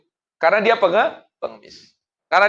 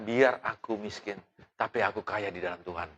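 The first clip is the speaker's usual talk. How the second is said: sincere declaration; 5 semitones lower, 12 dB quieter than usual. Shown as a demonstration. Pastor giving the congregation a line to repeat, gentle.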